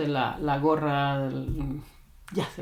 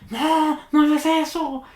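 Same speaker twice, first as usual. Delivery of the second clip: high, loud scolding yell at the dog; frustrated yell; 12 semitones higher, 7 dB louder, slower than usual. Retold or imitated. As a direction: imitate an owner losing it at the dog. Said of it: "tu voz sale y digo".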